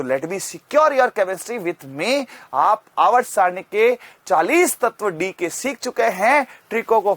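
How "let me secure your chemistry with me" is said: slow slogan. Acted. Teacher's slogan line.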